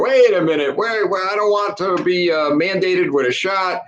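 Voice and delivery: a hint of a whining union member; mocking whiny teacher. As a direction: imitate the protest with mild mock outrage. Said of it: "all over the internet screaming".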